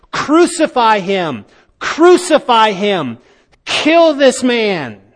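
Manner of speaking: preacher voicing the frenzied crowd's cry; crowd shouting. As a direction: cry it out as the mob at full lungs. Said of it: "shouting at the top of their lungs".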